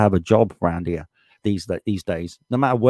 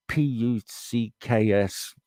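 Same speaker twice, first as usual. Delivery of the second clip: spelled-out swear; 7 dB quieter, much slower than usual. Real, not acted. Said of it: "I'm trying to keep it clean here".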